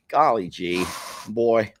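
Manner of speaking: shaking off a sharp knock; hit my funny bone. Real, not acted. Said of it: "hit me in the funny bone".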